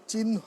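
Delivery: চিহ্ন said "chin-ho" with an audible h; h-like sound. Shown as a demonstration. Teacher showing how the word is pronounced, h sounded. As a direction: breathe an h after the n in চিহ্ন. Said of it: "একটু হয়ের মতো উচ্চারণ হবে".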